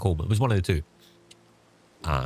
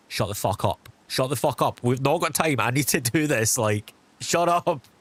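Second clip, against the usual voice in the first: impatient inner voice; 6 semitones higher than usual. Retold or imitated. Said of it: "in my head, I'm just like".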